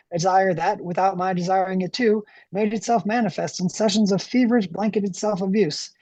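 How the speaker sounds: lightly voiced lumberjack narrating. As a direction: read it like a plain-spoken lumberjack. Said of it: "I read this to myself in a lumberjack voice".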